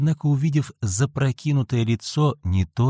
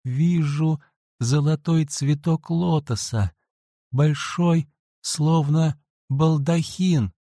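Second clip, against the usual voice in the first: high, slow dreamy murmur; sleep talking; 5 semitones higher, slower than usual. A narrator's reading. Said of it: "будто во сне пробормотала".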